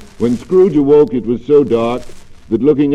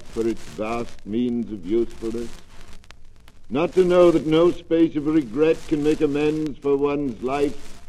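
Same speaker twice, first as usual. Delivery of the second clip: sorrowful spirit, lamenting; a hint of a grieving ghost; mournful ghost; 5 dB quieter than usual.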